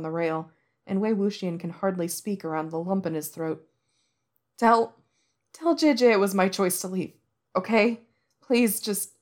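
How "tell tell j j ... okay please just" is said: choked plea. Acted. Choked plea through tears.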